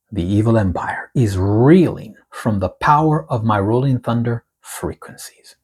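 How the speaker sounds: slow, weighty reading of the Lord's words; prophetic proclamation. Acted. Reads the prophetic word aloud.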